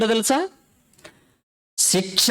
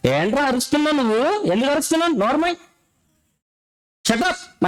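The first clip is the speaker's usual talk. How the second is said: preacher lightly acting God's higher-pitched rebuke; mock scolding, pitched up, quick at first; 5 semitones higher, much faster than usual. Preacher voices God silencing a crying sinner, mildly scolding. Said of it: "దేవుడు వేస్తున్నాడు ప్రశ్న".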